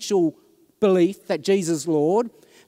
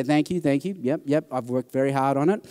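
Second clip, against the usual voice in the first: dry sarcasm; 6 semitones lower than usual. Retold or imitated. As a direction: say it with a dry smirk. Sarcastic reply about his accent.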